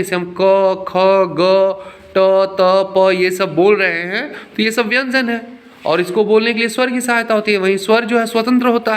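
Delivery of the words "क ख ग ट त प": क, ख, ग, ट, त, प each said with a vowel after it; consonant sounds demonstrated. Shown as a demonstration. Teacher showing the class how consonants need a vowel, sounded out singly. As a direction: sound out क, ख, ग, ट, त, प one by one. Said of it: "व्यंजन को बोलने के लिए स्वर की सहायता".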